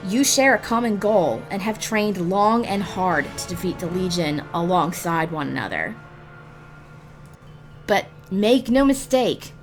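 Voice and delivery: normal talking voice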